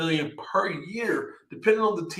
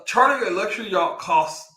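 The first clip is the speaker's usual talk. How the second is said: posh money accent; 3 semitones higher than usual. Real, not acted. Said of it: "why do I keep saying it like that".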